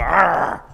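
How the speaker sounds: frustrated groan. Retold or imitated. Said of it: "you wanna go".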